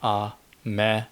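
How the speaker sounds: "a me" with the weight on me; stress on second syllable. Shown as a demonstration. Learner guessing at the word for rain, stress on "me" in "a me". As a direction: lean on the ME of "a me". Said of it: "and you put the emphasis on me".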